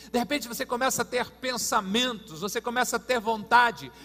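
emphatic preacher, rising in force; preaching. Real, not acted. Preacher describing sudden promptings from God, emphatic preaching. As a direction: push the phrases out to the congregation.

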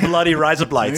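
put-on high, laughing Australian accent. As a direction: ham up the Aussie accent. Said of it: "try and say it with an Australian accent".

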